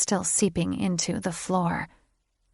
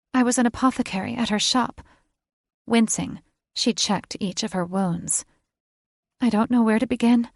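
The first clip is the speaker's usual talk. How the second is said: a bit higher, quick, eager telling; lightly voiced young witch; 4 semitones higher than usual. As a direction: rush through her story brightly. Witch Violet speaks fast.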